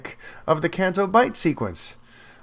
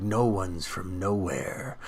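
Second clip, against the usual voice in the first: quiet slow Luke; 9 semitones lower, 10 dB quieter, slower than usual. Retold or imitated. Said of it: "And he's like".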